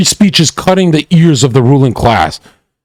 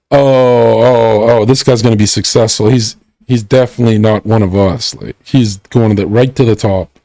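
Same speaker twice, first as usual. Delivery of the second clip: a lower, awed murmur of the friend group; mock awed friends; 5 semitones lower than usual. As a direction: sound impressed but only half meaning it. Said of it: "And then everyone goes".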